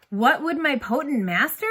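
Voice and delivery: tense, urgent Ariel plea; on a knife's edge. Acted. Boy nailing the line for his teacher, urgent. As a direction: lift it with real passion. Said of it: "Indeed, there you are".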